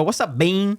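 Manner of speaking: "Bean" said in an odd, playful way; name said weird. Shown as a demonstration. Podcaster greeting a friend by nickname, "Bean" said weird. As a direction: greet him, bending the vowel of "Bean". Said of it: "I say his name weird".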